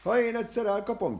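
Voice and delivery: high, loud furious cry; shouting. Acted. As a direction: yell it out in rage. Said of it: "kiáltott fel az ember". (magas, hangos, dühös kiáltás)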